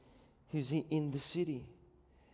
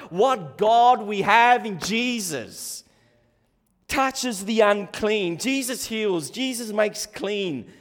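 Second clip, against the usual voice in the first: louder, slower rising praise; excited praise; 6 semitones higher, 12 dB louder, slower than usual. Real, not acted. Preacher praising Jesus to congregation, excited and louder. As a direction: build up in wonder. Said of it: "I'm getting too excited".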